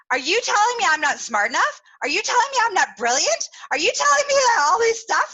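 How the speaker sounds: retold outrage building to a near shout; indignant rant. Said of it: "the ugly surfaces".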